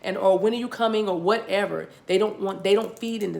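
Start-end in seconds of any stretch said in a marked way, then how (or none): 0.0-1.1 higher, mock-needy pleading; hammed-up impatient nagging. Imitating a partner nagging the distant lover, impatient and higher. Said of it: "if you're impatient and saying".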